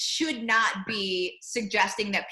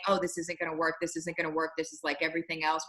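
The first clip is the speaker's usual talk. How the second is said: softer nagging self-doubt; doubtful inner voice; 5 semitones lower, 5 dB quieter, faster than usual. Retold or imitated. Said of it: "their little voice in the back of their head".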